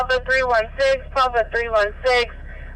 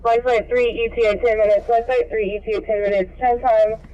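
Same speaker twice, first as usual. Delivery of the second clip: ambulance radio. Real, not acted. Scanner dispatch traffic played on stream.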